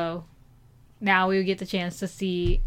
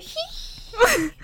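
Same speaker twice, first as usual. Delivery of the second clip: squeaky giggle; 14 semitones higher than usual. Retold or imitated. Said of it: "you're like".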